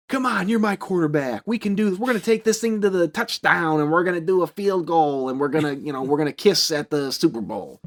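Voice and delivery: a hint of a cheerleading girlfriend; pep talk. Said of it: "basically like".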